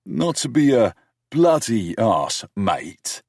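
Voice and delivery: mocking her British accent, teasing; thick British accent. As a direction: throw her own British slang back, hammed up. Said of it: "I purposely said in a thick accent".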